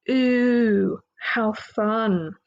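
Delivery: dry mock enthusiasm; sarcastic "ooh, how fun". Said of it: "Sorry, I try not to be sarcastic".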